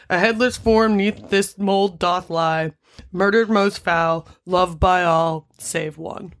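put-on slow, grave old-style recital; solemn epitaph reading. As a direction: read it like an ancient gravestone.

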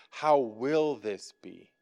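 soft, slow, quiet asking; gentle wondering question. Retold or imitated. Mary asking the angel softly, slow gentle wonder. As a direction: let Mary ask softly and slowly, in wonder. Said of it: "you hear the difference in tone when Mary says".

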